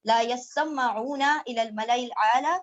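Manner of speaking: slow, measured Arabic recitation with drawn-out vowels; Quran recitation. Acted. Teacher recites the verses before translating, in slow Quranic recitation. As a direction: recite the verses slowly, stretching the long syllables.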